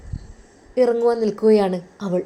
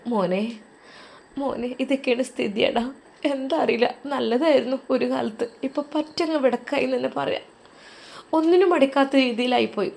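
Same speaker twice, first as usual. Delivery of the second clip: sobbing mother; 4 semitones higher than usual. Acted. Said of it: "ഉമ്മ വിതുമ്പിക്കൊണ്ട്".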